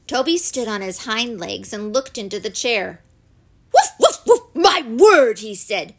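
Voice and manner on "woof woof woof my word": loud, high barks of astonishment; yap, then exclaim loudly; astonished excitable dog; amazed talking dog. A narrator's reading. Toby is amazed by the treasures.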